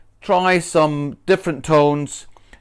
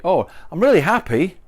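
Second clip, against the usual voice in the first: higher, bright happy delivery; genuinely happy; 4 semitones higher, faster than usual. Shown as a demonstration. Teacher shows a really happy tone. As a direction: sound truly pleased. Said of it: "that tone should reflect what you want to say".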